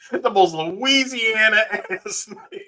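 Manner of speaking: laughs breaking through the words; can't get it out for laughing; giggling through it. Real, not acted.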